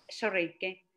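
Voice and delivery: normal talking voice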